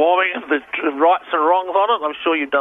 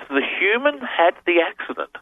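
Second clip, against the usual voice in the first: slow careful readout; 5 semitones higher, slower than usual. Shown as a demonstration. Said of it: "and he says".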